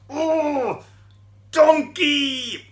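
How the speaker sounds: put-on high, loud angry yell repeated for the children; shouting demo. Shown as a demonstration. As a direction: shout it again for them to copy. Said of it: "Do you want to try that with me?".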